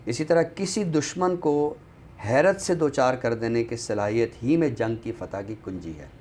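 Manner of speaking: reading a quote. Shown as a demonstration. Host reads a passage from the back flap to viewers, recital tone. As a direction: read the book's lines aloud with gentle weight. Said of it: "अगर मैं चंद जुमले जो इसकी back flap पे".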